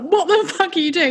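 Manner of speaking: retold rage. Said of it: "rage mode".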